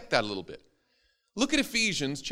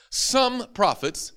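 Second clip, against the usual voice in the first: "some" raised and drawn out; slow emphasis; 8 semitones higher, much slower than usual. Shown as a demonstration. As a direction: stretch the word "some" high. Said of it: "reading the list with emphasis".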